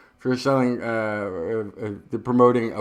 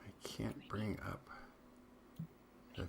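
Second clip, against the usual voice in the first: much softer, whispered to himself; muttering to himself; 4 semitones lower, 21 dB quieter than usual. Real, not acted. Co-host fumbling with his screen, soft mutter. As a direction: mumble it under your breath.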